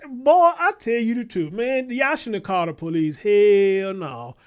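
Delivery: loud, heated yelling; shouting at the daycare staff; furious shout. Real, not acted. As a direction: let it rip at them.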